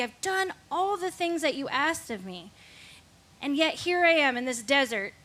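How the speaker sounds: retold angry plea. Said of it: "But I was angry at God".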